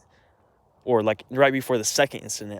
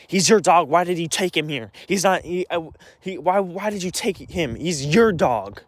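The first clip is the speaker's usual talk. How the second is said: raised mock of the family blaming him; a hint of a nagging accuser, pitched up; 5 semitones higher than usual. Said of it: "Bryn and Mom both say".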